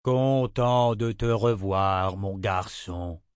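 put-on slow, measured old man's greeting; sober old wizard. Old wizard greeting the boy slowly and soberly. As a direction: greet him calmly, taking your time. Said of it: "dit plus sobrement Nathan".

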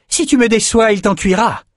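high-pitched menacing cry; shouted threat. A narrator's reading. Lila threatens her hesitant fighter, shouted threat. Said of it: "lui cria Lila".

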